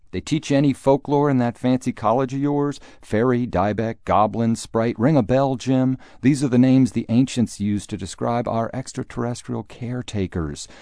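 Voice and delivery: put-on a pompous Republican dad lecturing the kid; preachy blowhard father. Father lectures Jim on aliens.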